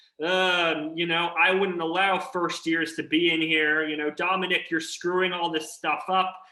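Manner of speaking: ordinary talk, nothing marked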